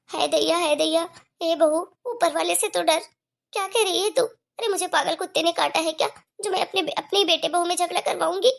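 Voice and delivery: hammed-up shocked mother-in-law; indignant old mother. Mother-in-law protesting daughter-in-law's accusation, indignant.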